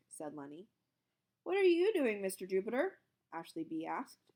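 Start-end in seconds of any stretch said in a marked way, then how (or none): 1.4-3.0 put-on child asking. A narrator's reading. Kid voice asking teacher.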